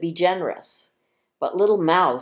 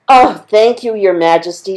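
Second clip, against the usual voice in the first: higher, grateful little mouse squeak; squeaky mouse; 4 semitones higher, 12 dB louder than usual. Acted. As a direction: squeak your thanks to the king. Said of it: "squeaked the mouse".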